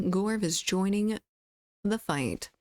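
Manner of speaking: a hint of a game announcer, "the fight" sounding dramatic; playful announcer. Shown as a demonstration. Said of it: "Gorv is joining the queue".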